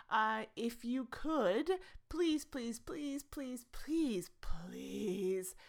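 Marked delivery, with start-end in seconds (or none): 2.1-5.5 mock pleading. Host begging listeners for support, pleading into a whisper. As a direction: beg comically, then drop to a whisper.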